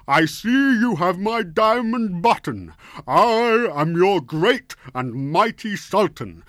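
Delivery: high, loud, slow pompous ruler voice; haughty sultan. Acted. Fat Sultan calling down to the rooster, loud and pompous. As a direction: boom it down from high on a horse.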